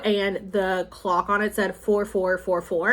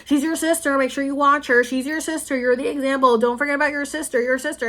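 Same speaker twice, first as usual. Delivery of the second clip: imitating parents nagging, higher and insistent; mock parental lecture, raised pitch; 4 semitones higher than usual. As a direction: drill it in like a parent. Parents nagging about her sister.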